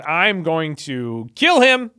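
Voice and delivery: slow, deliberate mock threat; freaking out. Wronged twin vowing revenge on his brother, mock freak-out. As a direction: draw out the vow in imitated rage. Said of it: "he freaks out and goes".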